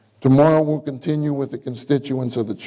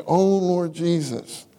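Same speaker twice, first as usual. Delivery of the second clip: longing call; slower than usual. Shown as a demonstration. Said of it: "You see".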